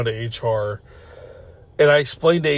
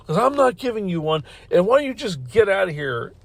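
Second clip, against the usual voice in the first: higher-pitched mock yell at moderate volume; retold yelling; 5 semitones higher than usual. Boss ordering worker out after copy request, mock yelling. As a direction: imitate an exasperated, dismissive telling-off. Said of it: "she starts yelling at me".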